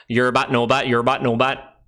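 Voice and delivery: mock Scouse chatter; Scouser girlfriend imitation. Imitating a Scouser's girlfriend talking, mock Scouse. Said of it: "heard, like, a Scouser's girlfriend talk".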